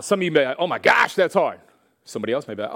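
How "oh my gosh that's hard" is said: loud, higher-pitched complaint; exaggerated groaning protest; mock dismay. Listener told to run a mile, loud mock dismay. Voices someone daunted by the challenge.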